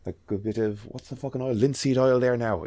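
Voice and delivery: lightly imitated Irish craftsman chatting through a job; thick Irish woodworker. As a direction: mimic an Irish handyman's running commentary. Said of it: "watch that guy fucking making wood handles".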